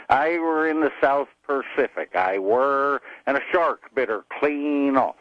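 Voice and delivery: put-on storytelling in a joke pirate accent. Pirate explaining his hook to a stranger, pirate accent. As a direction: boast of old battles in pirate accent. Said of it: "slid back and forth into that pirate accent".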